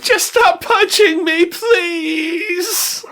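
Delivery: high, slow whimpering plea; whiny pleading. Acted. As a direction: beg like a sniveling coward. Mocking Diablo's pleading.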